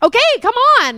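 high, loud exasperated yell; snapping shout. Retold or imitated. Parent retelling losing her temper at climbing kids. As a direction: lose it at the kids. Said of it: "I was like".

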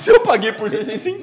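amused self-mockery; laughing at himself. Real, not acted. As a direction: laugh at your own bad deal. Mocking his own purchase, laughing.

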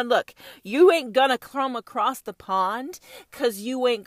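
rally the troops with a roar; roaring rallying speech. Acted. British then American taunts, loud.

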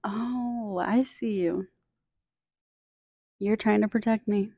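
soft, gentle words to your own ego; gentle reassurance. Shown as a demonstration. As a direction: soothe it like a scared friend. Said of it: "And you just say".

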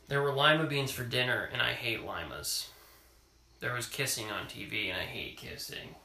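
reading a picture book aloud; story reading. Acted. Parent reading a picture book to child, storytelling voice. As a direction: read it to a child at bedtime.

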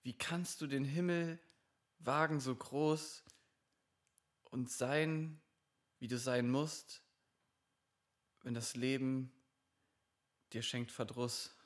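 mock poetry slam. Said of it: "Das war gar nicht so Poetry Slamming gerade".

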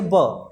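"ब" as a bare letter sound; phoneme demonstration. Shown as a demonstration. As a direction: say "ब" as one short syllable, not the letter name bee. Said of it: "अब इसको पढ़ेंगे". ("ब" की ध्वनि अकेले बोलकर दिखाना)

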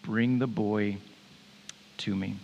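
low, halting, grudging order; annoyed, resigned. Acted. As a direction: give in with tired patience. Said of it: "after he displays how annoyed he is".

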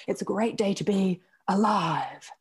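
lightly voiced stranger, a touch sing-song; odd cheery stranger. A hint of a stranger at the breakfast buffet, oddly cheery. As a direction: mimic a stranger's oddly bright greeting. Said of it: "it's the way she said it".

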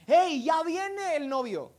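high, loud drawn-out herald's call; shouted announcement. Acted. Someone alerting the sleeping women, shouting. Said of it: "alguien gritó".

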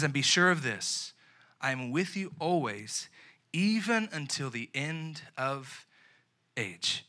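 soft, slowing promise of Jesus; tender promise. Acted. Preacher reads Jesus' promise to the youth, softly and slowly.

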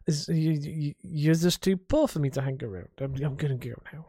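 put-on stumbling drunk millionaire; tipsy rich snob, tripping over the first words; Cedric Hardcastle. Shown as a demonstration. Drunk millionaire brushes off someone poorer, stumbling tipsy voice. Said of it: "he is a drunk millionaire".

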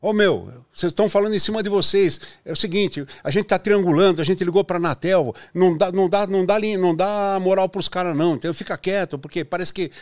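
lightly voiced anxious engineer; worried engineer. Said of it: "E aí vinha o engenheiro".

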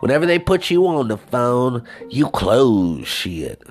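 voice trainer. Retold or imitated. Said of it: "the training for The Voice".

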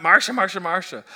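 mock whiny Marcia Marcia; lightly whined, falling away; whiny sitcom call. Shown as a demonstration. Pastor showing the wrong tone for Jesus, mock whiny. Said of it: "the tone that Jesus used here was not".

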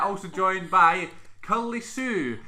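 slow, loud announcer; announcer intro. Acted. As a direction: stretch it like a host.

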